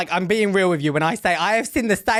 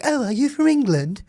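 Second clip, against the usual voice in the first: higher, wide-eyed American question; imitated American; 4 semitones higher than usual. Brit imitates Americans she meets, curious American accent. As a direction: ask it in a put-on American accent. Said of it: "they're like".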